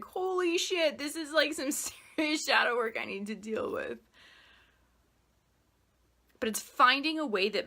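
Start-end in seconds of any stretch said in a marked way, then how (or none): 0.0-4.0 higher, startled "holy shit" that settles into a laugh; half-laughing shock at your own discovery; amazed realization. Retold or imitated. Imagined self facing shadow work, laughing surprise. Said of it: "Or, like".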